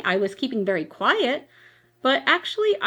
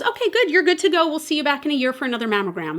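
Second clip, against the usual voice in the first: much higher, chirpy and quick; breezy dismissal; 5 semitones higher, much faster than usual. Retold or imitated. Doctor cheerily sending the patient home, chirpy and high. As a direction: brush her off cheerfully.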